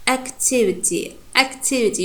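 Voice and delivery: "activity" with unreduced "a" in the first syllable; full first vowel. Shown as a demonstration. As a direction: keep a full AK at the start of "activity". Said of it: "it's not reduced, it's full vowel".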